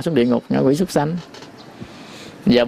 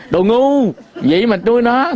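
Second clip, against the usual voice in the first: mẹ mắng; 8 semitones higher than usual. Retold or imitated. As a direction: snap it like a mother scolding her foolish daughter. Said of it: "Bắt đầu nghe bị chửi". (giọng má mắng con, cao và to hơn)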